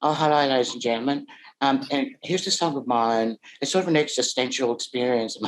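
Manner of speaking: lightly voiced timid earnest singer; a hint of a sensitive poet; mock shy poet. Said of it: "And, uh, you know".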